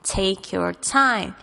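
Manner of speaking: slow model phrase. Shown as a demonstration. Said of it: "一句非常好的句子哦".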